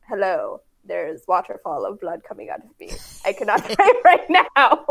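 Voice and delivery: deadpan start building to loud, laughing protest; exasperated retort. Retold or imitated. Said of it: "I would say it with that tone and in that voice".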